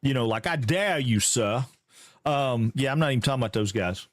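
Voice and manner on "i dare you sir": mock old-style Southern accent; Buford Calloway. Streamer giving an example to chat, mock Southern accent. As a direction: play up the Southern, lightly. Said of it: "Buford Calloway type Southern".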